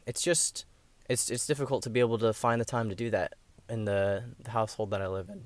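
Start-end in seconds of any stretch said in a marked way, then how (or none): 4.4-5.5 voice crack. Real, not acted. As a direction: voice cracking mid-phrase. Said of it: "that was a terrible voice crack".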